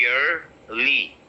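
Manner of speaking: "yearly" in two slow parts, yer-lee; y glide and er at the start of "yearly"; correct pronunciation. Shown as a demonstration. Teacher spells it out then models it, correct "yearly". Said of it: "Y E".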